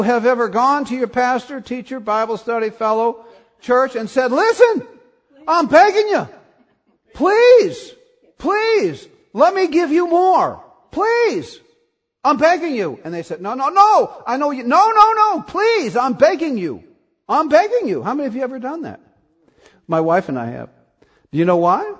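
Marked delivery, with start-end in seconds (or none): 4.3-13.0 high-pitched pleading plea, half laughing; squeaky mock plea, please please; mock begging. Pastor acts begging congregant. 13.4-18.0 high-pitched pleading plea, half laughing; squeaky mock plea, please please; mock begging. Acted givers keep begging.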